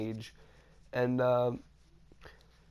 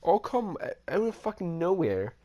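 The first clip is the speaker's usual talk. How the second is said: high-pitched storyteller's disbelief; incredulous telling; 6 semitones higher than usual. Real, not acted. Storyteller recounting an ambush to viewers, incredulous. Retelling a gang suddenly appearing.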